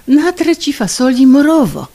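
hammy stage line. Acted.

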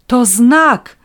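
high, loud ecstatic cry; calling out. A narrator's reading. Crank passer-by proclaims a sign, high loud ecstatic cry. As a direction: proclaim a miracle. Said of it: "zawołał".

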